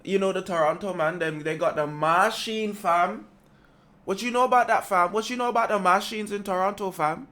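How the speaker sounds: put-on Toronto slang accent. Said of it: "I'm working on my Toronto accent".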